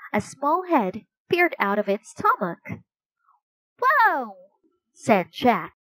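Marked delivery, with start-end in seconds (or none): 3.8-4.4 high, amazed gasp of a word. Acted. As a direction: react to a startling sight. Head peers out of pouch.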